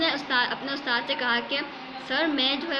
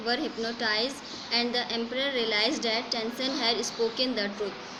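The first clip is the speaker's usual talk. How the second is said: slow, measured textbook reading; story read-aloud; much slower than usual. A narrator's reading. Teacher reads English story to students, slow measured read-aloud. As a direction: read it out phrase by phrase.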